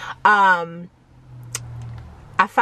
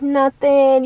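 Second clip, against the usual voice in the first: mock sad; 4 semitones higher, 4 dB louder than usual. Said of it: "the whole, like, sad".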